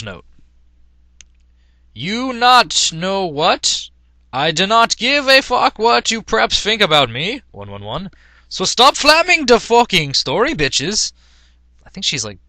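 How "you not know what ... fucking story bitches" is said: put-on ranting teen author. Teen author yelling at critics in a hammed-up rant. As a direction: snarl it like an offended teen author.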